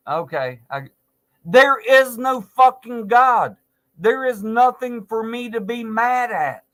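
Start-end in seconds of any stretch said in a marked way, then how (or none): 1.5-6.3 angry outburst. Real, not acted. Angry rant about God.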